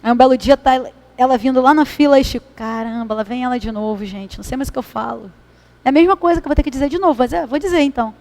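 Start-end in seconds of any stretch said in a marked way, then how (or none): 2.6-5.3 weary aside. Acted. Chico muttering to himself as the woman comes again, softly and wearily. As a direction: sigh it under your breath, exasperated.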